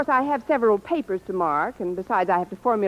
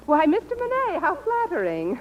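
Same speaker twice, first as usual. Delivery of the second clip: mock flattered; 7 semitones higher than usual. Coy, mock-flattered reply to compliment.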